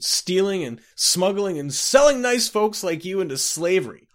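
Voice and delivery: bursting into maudlin tears; tearful drunken lament. A narrator's reading. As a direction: pour out a sobbing drunkard's confession, high and overwrought. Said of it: "burst into tears".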